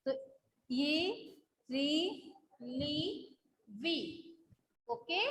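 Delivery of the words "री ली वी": "री", "ली", "वी" each said briefly; short vowel. Shown as a demonstration. Teacher correcting pupils' long vowels, short syllables in "री", "ली", "वी". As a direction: keep the ई in "री", "ली", "वी" short. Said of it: "छोटा होता है".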